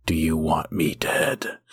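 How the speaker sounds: low, slow, weary mock-dramatic plea; slow dramatic overwrought. Mocking the cartoon's voice acting, slow and overwrought. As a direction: drag it out like tired overwrought voice acting. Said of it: "slow and dramatic".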